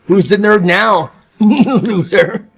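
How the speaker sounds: mock the loser gleefully; gloating laughing taunt. Cafeteria taunts the bully.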